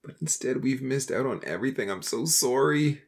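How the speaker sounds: low-pitched voice heavy with remorse; anguished confession, pitched well below the narration; sobbing apology. A narrator's reading. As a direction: pour out regret in a deep, grief-laden voice. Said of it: "he sobbed, hugging him tightly".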